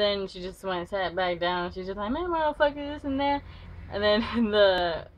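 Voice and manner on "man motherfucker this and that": mock grumbling. Girl grumbles sitting down.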